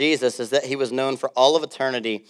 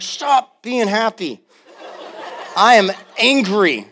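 mock angry; 6 semitones higher, slower than usual. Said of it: "when you're mad and someone's laughing".

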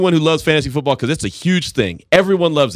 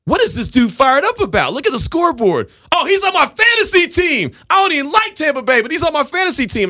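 baffled disbelief. Retold or imitated. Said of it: "And I was like".

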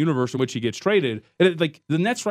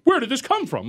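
mock bewildered; 9 semitones higher than usual. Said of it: "I'm freaking out".

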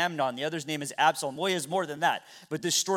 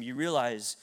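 grave rebuke; 6 semitones lower, 7 dB quieter than usual. Retold or imitated. Prophet confronts the king.

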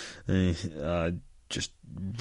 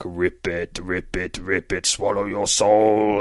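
slow ribbit chant swelling louder; drawn-out frog threat; frog croak; 3 dB louder, slower than usual. Acted. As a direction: croak it like a soul-eating frog. Soul-eating frog croaking at students.

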